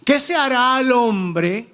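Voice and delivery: "¿Qué se hará al hombre?" said slowly, each word weighed, rising on qué; slow, weighty statement of the title; slow title phrase. Shown as a demonstration. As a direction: announce the sermon title slowly and solemnly. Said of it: "Ese es el título de esta predicación".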